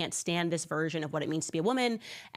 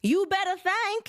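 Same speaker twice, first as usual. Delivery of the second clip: slow, loud, much higher imitation; mock Black accent; 13 semitones higher, 5 dB louder, slower than usual. Mocking Kamala's union speech, high slow mock accent. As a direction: drawl it out as a parody. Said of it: "how to say better anymore".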